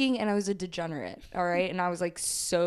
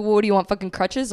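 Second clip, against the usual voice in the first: exasperated dad; 7 dB louder, faster than usual. Retold or imitated. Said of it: "he's like".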